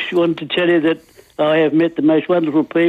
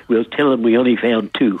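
put-on low Irish-accented punchline; 5 semitones lower than usual. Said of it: "I love the accent".

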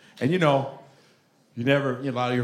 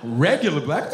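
puzzled repeat; 4 dB louder than usual. Acted. Mock reaction to the phrase.

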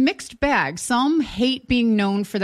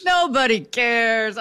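Bronx Tale quote; slower than usual. Acted. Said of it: "remember Bronx Tale?".

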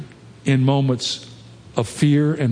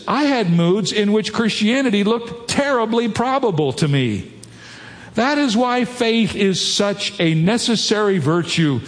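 higher-pitched reading aloud to a crowd; emphatic quotation reading; 6 semitones higher than usual. Acted. Preacher quoting C S Lewis on his moods, emphatic reading. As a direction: read the quotation out with lifted emphasis.

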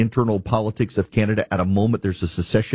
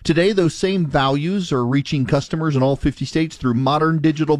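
upbeat radio sponsor read, often pitched higher; host-read ad; 3 semitones higher than usual. Real, not acted. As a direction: sell it like a trusted radio host.

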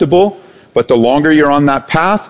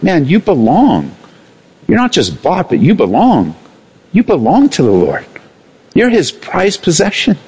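tender tone; 4 semitones higher than usual. Shown as a demonstration. Preacher showing the tender tone for the congregation, sincere. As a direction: tell them they belong, gently. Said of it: "just change the tone of your voice".

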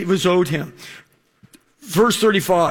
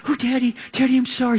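daughter apologizing; 5 semitones higher, faster than usual. Retold or imitated. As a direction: play the sorry daughter, gently. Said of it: "She's like".

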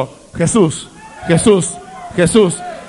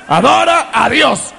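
rising call; 3 semitones higher than usual. Real, not acted. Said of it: "repetition building".

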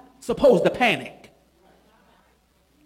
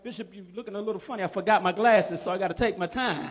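quick, much softer teasing aside; mock congregation aside; 2 semitones lower, 7 dB quieter, faster than usual. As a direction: toss it off softly, playing the crowd. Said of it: "Y'all might be looking at me like".

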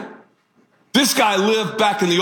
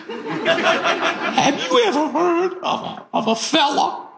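put-on Southern mother-in-law accent; 12 semitones higher than usual. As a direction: do the mother-in-law's thick Southern accent, pitched way up. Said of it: "She has a one-of-a-kind Southern accent".

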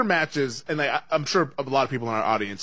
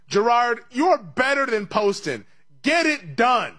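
higher, louder mock pep talk; playful rallying cry, pitched up; urgent exhortation; 10 semitones higher, 4 dB louder, slower than usual. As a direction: call out to spur on a player. Urging golfer as if calling out.

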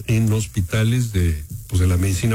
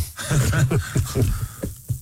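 unvoiced-sounding chuckle trailing off; laughter; 5 semitones higher than usual. Real, not acted. Co-host joking about the hospital rat, laughing. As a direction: laugh at your own quip.

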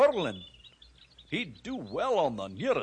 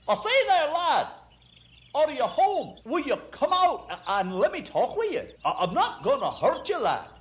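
friendly calling out; 9 semitones higher than usual. Acted. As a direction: call out cheerfully to reach him indoors. Dog calling out at the house.

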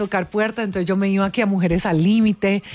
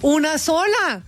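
retold crying plea; 5 semitones higher than usual. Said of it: "y yo chillaba".

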